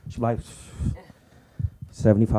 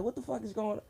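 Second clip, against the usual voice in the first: mock bafflement; 10 semitones higher, 12 dB quieter, faster than usual. Retelling class confusion.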